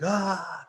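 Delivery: high, soft mock cry; imitated frantic gasp. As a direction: let out a small panicked "ah". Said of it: "and he's just like".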